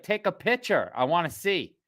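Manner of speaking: put-on high little-girl voice; lightly voiced kid pleading; daughter asking. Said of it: "she was like".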